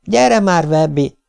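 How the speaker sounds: uneasy urging, pitched high. A narrator's reading. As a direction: coax a friend away, mildly uncomfortable. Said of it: "mondta Anvin feszengve". (feszengve, magasabb hangon)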